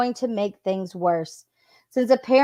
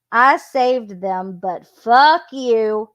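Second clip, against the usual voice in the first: slow, louder, each word weighted; all-caps anger; 4 dB louder, much slower than usual. Retold or imitated. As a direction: read it like an all-caps text, drawing out the curse. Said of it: "in all capitals".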